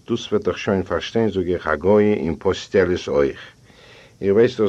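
usual speaking voice

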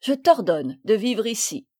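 mock order said with a smile; gently teasing command; smiling. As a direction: guardian smiling while comforting the girl. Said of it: "en souriant".

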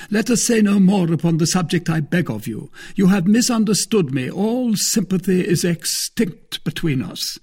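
high, loud injured dignity; Porthos, offended farewell. Acted. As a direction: break it off theatrically. Porthos breaks off.

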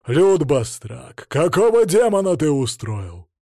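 loud, furious demand. A narrator's reading. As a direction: roar at the troublemaker. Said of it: "громче, яростное".

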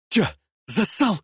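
high sneering jeer; mocking taunt. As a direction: taunt him as a coward. Boy taunts hero.

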